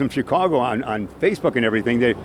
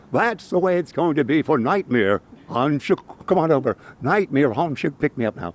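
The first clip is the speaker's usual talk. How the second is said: eerie voice; slower than usual. Pretend. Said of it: "let's use our eerie voice and say".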